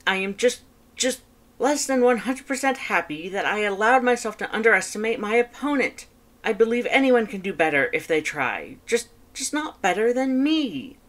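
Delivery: high, loud, fast boastful skeleton; Papyrus voice. Acted. Papyrus reporting on his date to his brother, high and loud. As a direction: rattle it off proudly, high and loud.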